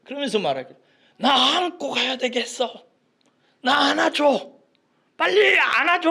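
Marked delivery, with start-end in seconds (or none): 1.2-6.1 put-on high, loud demanding child voice; child shouting. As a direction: bawl to be carried, louder each time. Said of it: "하고 막 소리치는 거야". (아이처럼 높은 소리로 떼쓰며)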